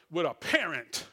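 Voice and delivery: "parent" set apart and leaned on; stress on parent. Real, not acted. Preacher recalling strict homes, heavy stress on "parent". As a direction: lean hard on the word "parent". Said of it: "and I emphasize parent".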